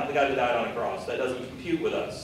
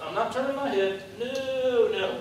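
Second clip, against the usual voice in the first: higher, put-on stubborn voice; stubborn refusal; 8 semitones higher than usual. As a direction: play a sulky stubborn person. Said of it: "they're like".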